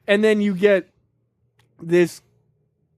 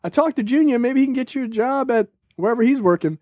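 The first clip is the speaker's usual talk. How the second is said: higher gentle-wife voice; sweet wife voice; 6 semitones higher than usual. Retold or imitated. Wife suggests her husband ask Junior for a job, sweet and high. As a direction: offer help sweetly, a little hopeful. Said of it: "a sweet lady".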